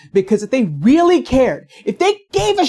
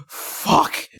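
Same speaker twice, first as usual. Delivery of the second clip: a soft breathy whisper under the breath; whispered curse; 6 dB quieter than usual. Real, not acted. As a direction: whisper it to yourself after the laugh. Mutters after laughing.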